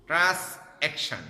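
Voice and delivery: "ট্রান্সঅ্যাকশন" slow and loud, broken into trans + action; syllable-by-syllable. Shown as a demonstration. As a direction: punch out "ট্রান্সঅ্যাকশন" in two high, separate beats. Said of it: "syllable ভিত্তিক উচ্চারণটা আসলে".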